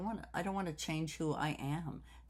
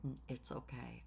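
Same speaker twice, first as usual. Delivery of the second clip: softly reassuring, as retold; quiet retold comfort; retold reassurance; 3 semitones lower, 8 dB quieter than usual. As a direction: soothe him in a softer voice. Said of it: "I had to reassure him".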